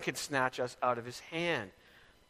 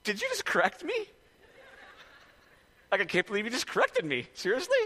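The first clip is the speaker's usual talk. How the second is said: higher, louder, indignant and fast; huffy disbelief, much higher in pitch; indignant inner voice; 7 semitones higher, 3 dB louder, faster than usual. Retold or imitated. Pastor voicing his judgmental inner reaction, indignant. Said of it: "I said this to myself".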